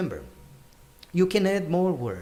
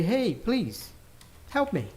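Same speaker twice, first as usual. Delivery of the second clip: higher-pitched mock plea; raised pitch, lightly pleading; 4 semitones higher, 3 dB quieter than usual. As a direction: act out asking for help. Acting out a plea for help.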